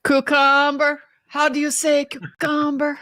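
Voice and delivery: put-on cucumber said as coo-COOM-ber in a Spanish accent; imitating Hilaria's Spanish accent. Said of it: "Fletcher Boy is referencing, uh, Hilaria".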